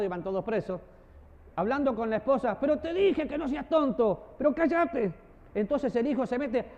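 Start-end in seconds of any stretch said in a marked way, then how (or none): 2.6-5.1 high, slow mock scolding; scolding wife. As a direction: nag him sharply, half playing. Wife scolded in family chat.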